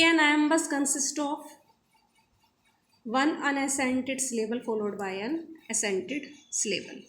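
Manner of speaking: exam line read slowly, word by word; slow question reading. Acted. Teacher reads exam question aloud to students, slow dictation.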